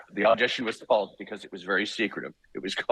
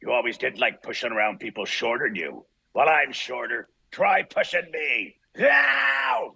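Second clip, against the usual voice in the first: slow, growling tough-guy threat that climbs to a sharp yelled "Ow!"; Wolverine audition line; 3 semitones higher, slower than usual. Acted. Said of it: "and this line was".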